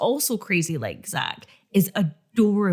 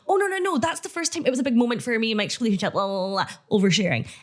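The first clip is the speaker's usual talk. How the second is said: relieved oversharing; faster than usual. Acted. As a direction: gush it out, tumbling into blah-blahs. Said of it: "notably relieved".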